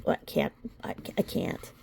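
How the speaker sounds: speechless, fading whisper; trailing whisper. Real, not acted. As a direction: lose the words, barely breathing them. Speechless at the complaint.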